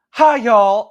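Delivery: high, loud Southern anchor greeting; chirpy Southern hello from a news anchor; Southern accent. Acted. Game master voicing anchor, Southern accent. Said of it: "I can only do Southern".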